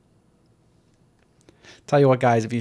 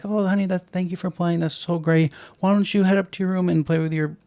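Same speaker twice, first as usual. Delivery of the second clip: sweet parent voice; 3 semitones higher than usual. Retold or imitated. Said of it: "try to defuse the situation".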